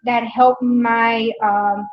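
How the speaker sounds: talking while crunching food; chewing between words; crunching while eating. Real, not acted. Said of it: "Pardon the crunching".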